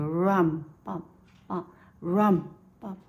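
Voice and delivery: sway it like dancers; dance feel. Shown as a demonstration. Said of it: "create the feeling of the dance".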